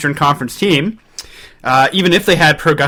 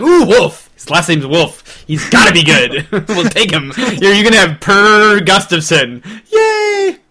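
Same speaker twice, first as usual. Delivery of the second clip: hammed-up glee, ending in a high squeal of yay; giddy fake cheer from Toronto; playful overexcited team boss; mock excited manager; 4 semitones higher than usual. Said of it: "Toronto's like".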